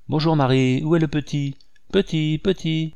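put-on eager boy shouting for his bird; Georges crying out. A narrator's reading. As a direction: burst in calling for the bird. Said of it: "cria-t-il".

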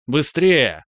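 громкий резкий окрик; подгони его окриком; прикрикнула. A narrator's reading. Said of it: "прикрикнула на меня Иви". (Иви громко прикрикивает на пленника)

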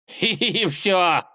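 high mock titter; chuckling. A narrator's reading. Tsar amused at the failed whistle, chuckling. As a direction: giggle at his failure. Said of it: "усмехнулся царь".

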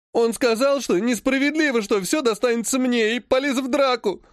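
high whining tearful complaint; whiny sob. Acted. Vlad fakes tearful complaint to grandfather, high whine. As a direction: fake tears to the grandfather. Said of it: "всхлипнул Владик".

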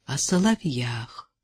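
low, quiet, mildly pained correction; subdued, a touch displeased; slight wince. A narrator's reading. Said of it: "Чуть поморщился Лемешев".

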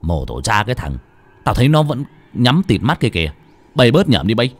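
gruff, irritated scolding; cursing. Acted. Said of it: "Nó quay lại chửi". (chửi gắt, bực bội)

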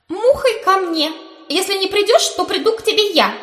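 high loud booming threat; eldritch horror. A narrator's reading. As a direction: demand it like an otherworldly summons. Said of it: "заявила Британи из моего кармана".

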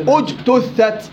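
very slow اجتثت starting with a clear hamza u before the jim; slow demo of starting a word with hamzat wasl; hamzat wasl voiced. Shown as a demonstration. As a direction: begin اجتثت on a sounded hamza, drawn out. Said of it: "بثبت همس الوصل وبحركها".

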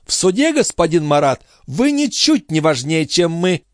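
put-on high, taunting old woman; sly old concierge. A narrator's reading. The concierge warning Marat, high and sly. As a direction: turn the threat back on him. Grivette triumphant.

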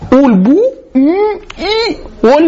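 a hint of a taunting grown-up; mock parent voice. Mocking a parent's words to child.

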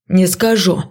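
shouted. A narrator's reading. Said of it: "выкрикнул Леший".

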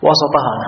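وسطها as wa-sa-Ta-haa; short a after the s in وسطها; fatha on the seen. Shown as a demonstration. Teacher applying the rule to the hadith, opened seen in وسطها. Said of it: "على حسب هذه القاعدة".

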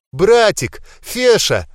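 high, loud joyful cry; tears of joy. A narrator's reading. Girl seeing her brother revived, joyful tearful cry. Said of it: "слёзы радости".

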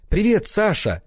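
high bright greeting called out loud; joyful cry. A narrator's reading. One-night lover greets Sasha, high joyful cry. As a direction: greet him like a thrilled lover. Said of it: "Радостно вскрикнула".

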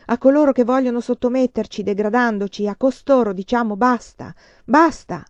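loud orator rallying a crowd; rousing speech. Acted. Heroine rallying the Shanghai crowd, a loud fiery speech. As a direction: build up to a ringing cry of basta.

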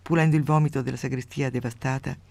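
steady storyteller's reading voice; measured radio story reading; story narration. A narrator's reading. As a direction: read the tale out with dry relish. Reads a grotesque story aloud.

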